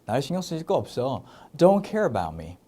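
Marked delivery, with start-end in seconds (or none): 1.6-2.6 slow model sentence. Shown as a demonstration. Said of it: "이렇게 될 수 있겠습니다".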